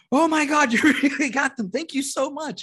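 high-pitched, gushing mock delight; Kevin Farley. Comic imitating Kevin Farley receiving cigars, gushing with mock delight. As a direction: squeal hammed-up gratitude, starting loud.

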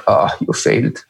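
breathy whispered self-reproach; deathbed whisper. Pretend. Imagining his own deathbed, he whispers. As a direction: whisper it like a dying man judging himself.

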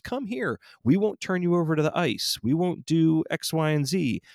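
high mock-welcoming voice, far above own; mocking singsong. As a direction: sing it like a fake friendly promise. Mocking city's promise to migrants.

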